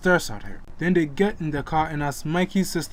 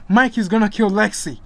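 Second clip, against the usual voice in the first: panicked; 4 semitones higher, 5 dB louder than usual. Acted. Sister alerts parents.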